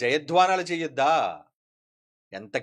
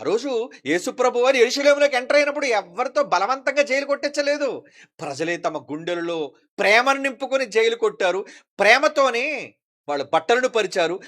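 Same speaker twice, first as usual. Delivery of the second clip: raised, emphatic sermon voice; fervent preaching; 5 semitones higher, 7 dB louder than usual. Acted. Preacher recounting the entry into Jerusalem to the congregation, fervent preaching. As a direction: proclaim the story with fervour.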